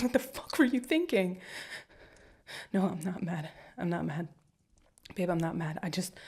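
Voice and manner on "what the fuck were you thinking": raised voice. Acted. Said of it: "shouldn't have yelled".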